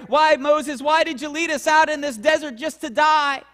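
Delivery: imitating the Israelites' whining, rising to panic; whining complaint. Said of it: "We whine and complain".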